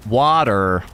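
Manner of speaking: water with a hard American R, wɔtə˞; American water, R rolled out at the end; American accent. Shown as a demonstration. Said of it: "What's my best American accent?".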